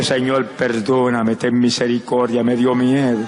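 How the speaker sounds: low, slow, tearful plea retold; a hint of Peter begging forgiveness, low and slow; Peter weeping. Preacher voicing Peter repenting after the denial, slow tearful plea. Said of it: "se tiró a llorar".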